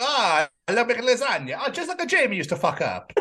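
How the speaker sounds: lightly hammed Italian; Italian accent. Imitating an Italian lasagna cook, comic Italian accent. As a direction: put on a joking Italian accent. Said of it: "does an Italian accent".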